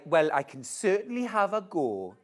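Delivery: put-on first try at a Geordie accent; testing out a Geordie lilt; attempted Geordie. A Geordie accent tried for a viewer's request. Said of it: "can you do a Geordie accent".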